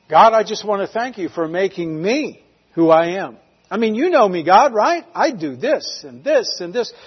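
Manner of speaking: lightly acted showy prayer; self-satisfied Pharisee praying. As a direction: pray aloud as if showing off. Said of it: "spoke very loudly, shoulders back".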